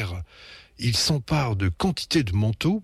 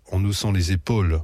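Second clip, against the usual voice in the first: plain reading voice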